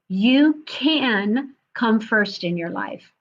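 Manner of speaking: slow, deliberate line leaning on "can"; stress on can. Real, not acted. Coach repeating her key message to the group, stressing "can". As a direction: draw out "can", then ease down through the rest. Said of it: "in parentheses".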